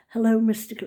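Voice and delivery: lightly put-on posh greeting. Former pupil greeting headmaster at reunion, mock posh voice. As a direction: attempt a posh English accent. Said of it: "in posh voice".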